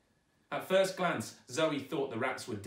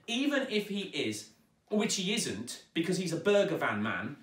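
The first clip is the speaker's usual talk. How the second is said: higher, insistent demand; demanding girl; 7 semitones higher, 4 dB louder than usual. A narrator's reading. Zoe demanding answers from her stepmother, higher and insistent. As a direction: press her stepmother hard. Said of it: "she demanded".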